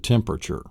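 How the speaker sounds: "temperature" run together as "tem-per-chur"; everyday three syllables. Shown as a demonstration. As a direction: drop the A inside "temperature". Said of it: "almost everybody pronounces it".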